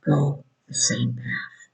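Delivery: soft slow whisper; hushed, slowed-down aside. Acted. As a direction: drop to a whisper as if sharing a secret.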